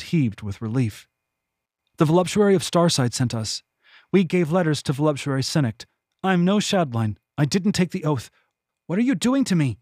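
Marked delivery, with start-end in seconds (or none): 2.0-9.8 higher, hurried pleading, rising to panic; frightened prisoner. Acted. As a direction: blurt the truth to make it stop. Kyla pleads under torture.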